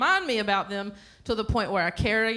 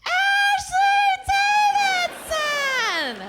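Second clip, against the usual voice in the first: very high, loud, stretched-out name; exasperated mom; 7 dB louder, much slower than usual. Retold or imitated. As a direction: holler the name slowly like an insistent mother. Mother repeats the name again.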